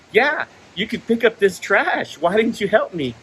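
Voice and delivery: retold confrontation, leaning on the words; fed-up retort. Customer telling the worker to help with trash, fed-up retort.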